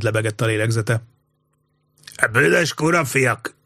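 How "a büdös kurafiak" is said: slow, higher-pitched acted yell; drunken bellow. A narrator's reading. Drunk old Hemis curses the two soldiers, acted bellow. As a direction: draw out the curse as a storyteller's shout. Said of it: "üvöltötte Hem is".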